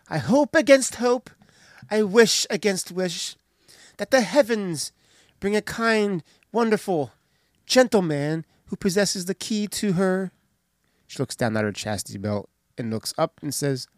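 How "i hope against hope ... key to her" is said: a lightly voiced dreamy maiden; hope against hope, gently raised; Marian's wish. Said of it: "She says, quote".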